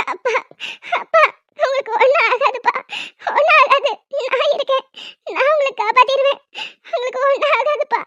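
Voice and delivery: sobbing pleas to her father, voice rising; tearful crying. Acted. Daughter sobbing over her collapsed father, crying. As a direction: cry out the comfort through tears.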